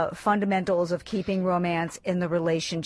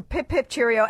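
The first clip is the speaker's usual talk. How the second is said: mock British phrase; 2 semitones higher than usual. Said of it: "you guys don't say pip, pip, cheerio".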